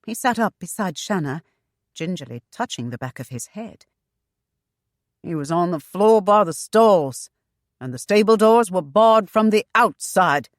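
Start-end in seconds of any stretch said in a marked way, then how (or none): 5.2-10.5 panting. Acted. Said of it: "Nathaniel panted".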